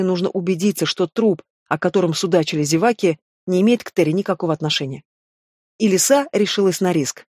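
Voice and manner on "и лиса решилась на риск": plain reading voice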